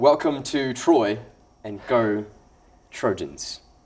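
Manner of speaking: slow, amateur, put-on British accent. Asking to be graded on his British accent: put-on British accent. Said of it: "grade me on how how good or how bad my my British accent is".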